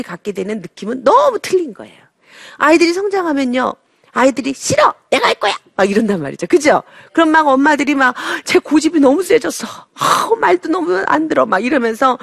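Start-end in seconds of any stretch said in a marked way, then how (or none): 4.5-5.5 put-on high, shrill-free child's refusal, pitch jumps up; stubborn toddler. Toddler refusing mother, high protesting child voice. 8.4-11.5 higher, fed-up complaining mom; exasperated mother. Acted. Mother complaining about stubborn child, higher fed-up voice.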